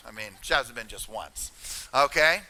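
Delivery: ordinary delivery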